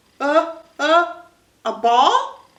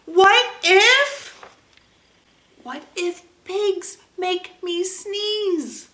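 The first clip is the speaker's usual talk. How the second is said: rising panic; 4 semitones higher, slower than usual. Acted. Gerald's worried question, second take.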